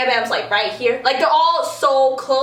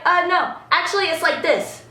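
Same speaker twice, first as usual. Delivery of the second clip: lightly imitated sassy correction; sassy comeback; 3 semitones higher than usual. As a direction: correct them with a touch of sass. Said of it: "he got all sassy".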